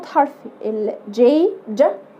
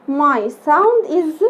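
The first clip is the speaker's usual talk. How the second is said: very slow teaching voice; slow drawn-out demo; much slower than usual. Shown as a demonstration. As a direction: stretch each word slowly. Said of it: "teacher demo repeated".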